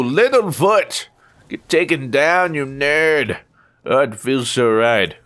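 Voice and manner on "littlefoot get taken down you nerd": slow, high taunting call; gleeful callout. Real, not acted. Streamer gloats at his rival Littlefoot, slow gleeful call. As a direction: stretch the name out in triumph. Calling out rival after kill.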